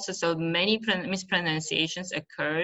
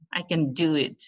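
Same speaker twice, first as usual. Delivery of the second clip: "can" reduced, beat on DO; unstressed "can". Shown as a demonstration. Teacher models a positive sentence, can left unstressed. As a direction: glide over "can" and stress "do". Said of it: "we don't, uh, stress the word can".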